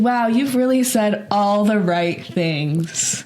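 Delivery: slow sarcasm. Retold or imitated. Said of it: "But I said".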